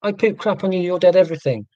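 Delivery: half-joking theatrical rant at a waiter; mock outburst. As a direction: play a diner pretending to rage after a bad meal. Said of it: "and in Portuguese say".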